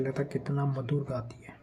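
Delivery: hushed read of the sentence; whispered option. Shown as a demonstration. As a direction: whisper "लता कितना मधुर गाती है" under the breath. Reads answer options aloud.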